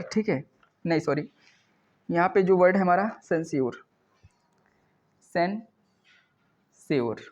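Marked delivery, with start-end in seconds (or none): 3.2-7.2 सेंस्योर split in two, very slow; slow syllable demo. Shown as a demonstration. Teacher teaching a new word, slowly broken in two. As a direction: sound out सेंस्योर with a long break inside.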